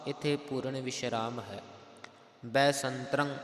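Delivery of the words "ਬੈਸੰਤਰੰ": ਬੈਸੰਤਰੰ with nasal sounds after s and final r; pronunciation demo. Shown as a demonstration. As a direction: nasalise both marked syllables of ਬੈਸੰਤਰੰ. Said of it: "ਸੱਸੇ ਦੇ ਉੱਪਰ ਟਿੱਪੀ ਹੈ".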